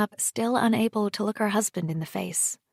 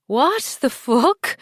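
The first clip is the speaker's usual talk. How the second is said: shocked anger; 6 semitones higher, 6 dB louder, slower than usual. A narrator's reading. Wife confronts husband about affair.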